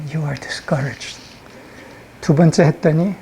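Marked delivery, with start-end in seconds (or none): 0.1-1.2 whispered suggestion. Acted. Imp whispering a second time to the person, softly. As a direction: whisper it into the ear. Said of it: "I whispered it".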